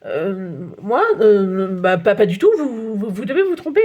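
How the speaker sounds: halting, hesitant denial with repeats; stammering. Acted. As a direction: stumble over the words, caught out. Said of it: "il bafouille". (Nicolas bafouille devant le photographe, hésitant)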